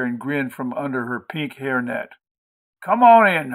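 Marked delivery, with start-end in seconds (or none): 2.8-3.5 high, loud, welcoming country woman; raucous hostess. A narrator's reading. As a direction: call out a hearty welcome in a high voice. Maudie calls the boy in.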